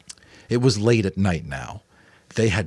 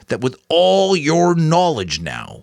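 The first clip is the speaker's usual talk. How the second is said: higher, louder elder lighting up; brightened Giver; 9 semitones higher, 7 dB louder than usual. A narrator's reading. The Giver brightening as he answers Jonas. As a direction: brighten as a thought strikes you. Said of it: "The giver brightened".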